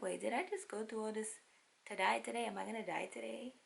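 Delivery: fast, high, panicky rush; mock panic. Mother fearing death in surgery, fast panic. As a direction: spiral into fear. Panic felt in her soul.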